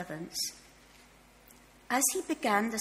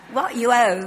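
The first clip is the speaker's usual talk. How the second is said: forceful shout, much louder; loud demand; 13 dB louder than usual. A narrator's reading. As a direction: bark the order at the debtor. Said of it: "he demanded".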